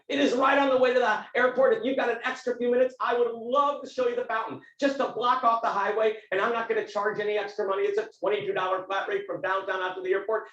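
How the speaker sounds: mildly excited imitation of a driver. Cab driver offering to show the fountain, mildly excited. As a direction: lift it a little with eager salesmanship. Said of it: "he started to get excited".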